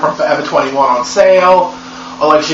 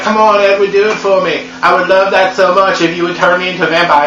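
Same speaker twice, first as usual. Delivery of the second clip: higher, coaxing plea; mock whiny pleading Bella; 4 semitones higher than usual. Bella begs Edward to turn her, mock whiny pleading. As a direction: wheedle him like a spoiled girlfriend. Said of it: "She's like".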